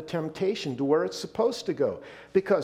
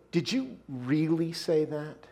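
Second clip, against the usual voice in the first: doubting question; slower than usual. Shown as a demonstration. Preacher showing the doubting tone of a question. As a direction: plant doubt with a slow question. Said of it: "catch the shift in tone of my voice".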